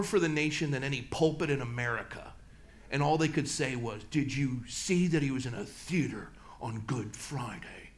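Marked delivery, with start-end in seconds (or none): 4.1-7.9 hushed, scandalized gossip whisper, slow; mock pious whisper. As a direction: sneer it like a churchy busybody. Mocking churches' gossipy complaint.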